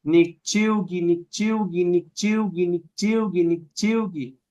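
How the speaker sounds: nikchiugi said smoothly, the u and g flowing with no break; teacher drilling nikchiugi as one fluid word; repeated Nahuatl word. Shown as a demonstration. Teacher demonstrates the first form to the class, saying it smoothly. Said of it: "Entonces usted dice".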